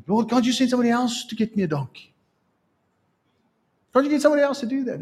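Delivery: high, fast, whiny plea; pleading complaint. Acted. Disciple begs the Lord to send someone else, fast and whiny. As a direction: rush the begging protest.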